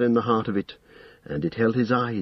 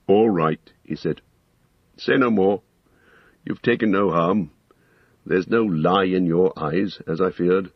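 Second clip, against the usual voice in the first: gentle wizard; 3 semitones lower than usual. Acted. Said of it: "his face grew gentler".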